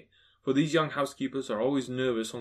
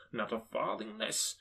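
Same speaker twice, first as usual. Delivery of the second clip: soft, slow, slightly higher; quietly insist, word by word; discreet insistence; 4 semitones higher, 8 dB quieter than usual. A narrator's reading. Scrooge confides his donation.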